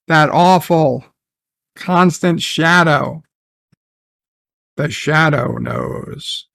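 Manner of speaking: a light mock of a sinister alien queen; creepy villain voice. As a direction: purr it like a menacing villain toying with him. Mocking villain's creepy monologue.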